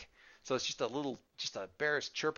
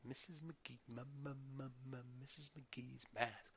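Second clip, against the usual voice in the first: put-on little kid voice; 15 dB quieter than usual. Sister repeating the name.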